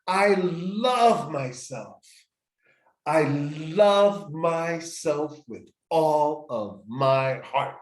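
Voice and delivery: very slow, tender self-affirmation, said with a smile; slow, smiling "I love myself". Shown as a demonstration. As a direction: savour each word with a smile. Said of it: "I have a big smile on my face and I'm saying to myself".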